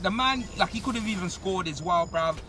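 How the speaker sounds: ordinary talk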